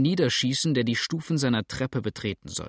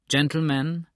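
calling out; 5 semitones higher, 4 dB louder than usual. Acted. Lawyer calming angry crowd.

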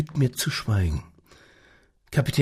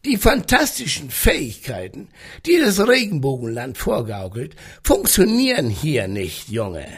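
growling voice; 3 semitones higher than usual. Acted. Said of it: "wenn er sprach, vibrierte der Holzboden".

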